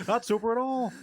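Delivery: high-pitched observational stand-up voice; Jerry Seinfeld. Acted. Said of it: "that's a Jerry Seinfeld joke".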